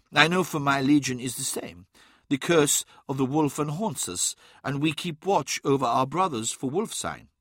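a hint of a grave warrior's voice; lightly characterised, knowing warrior; lightly voiced Weirdmake. Weirdmake tells Adaman he knows his legion's secret, lightly voiced and knowing.

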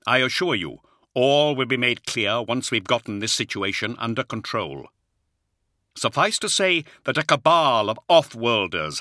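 lightly voiced firm commander; calm authority reassuring the colonel; commanding lord. Commander's voice held by narrator.

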